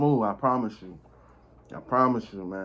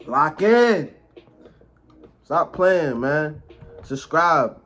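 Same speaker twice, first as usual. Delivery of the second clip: hype shout; 3 semitones higher, 5 dB louder, much slower than usual. Real, not acted. Hyping viewers up.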